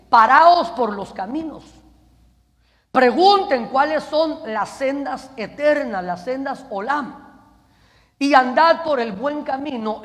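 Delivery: loud, emphatic preacher's quotation; proclaimed divine command. Acted. Preacher quoting the Lord to Israel, loudly proclaimed. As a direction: proclaim it, hitting each opening word hard.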